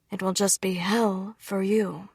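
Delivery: slow, blunt father voice; a lightly voiced father warning her; frank father. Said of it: "he said frankly".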